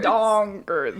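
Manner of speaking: drawn-out, lightly mocked Swedish accent; playful imitation Swedish accent; thick Swedish accent. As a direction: echo it in a pretend Swedish accent. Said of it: "a thick Swedish accent".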